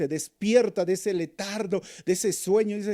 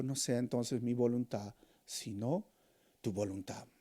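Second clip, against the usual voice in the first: surrendered prayer; 4 semitones lower, 7 dB quieter than usual. Retold or imitated.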